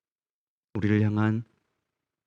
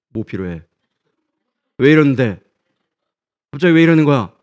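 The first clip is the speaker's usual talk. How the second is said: suspicious surprise; 4 semitones higher, 11 dB louder than usual. Acted. Suspicious child answers parent's love.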